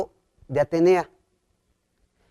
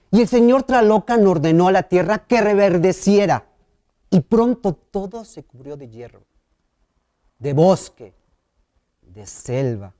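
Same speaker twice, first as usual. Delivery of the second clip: story narration. Acted. Reads a creation myth.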